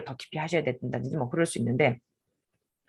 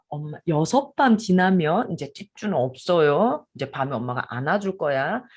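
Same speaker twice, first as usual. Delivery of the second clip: put-on gentle to toddler; slower than usual. Shown as a demonstration. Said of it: "애 얼굴 앞에 보고 이렇게 하셔야 됩니다".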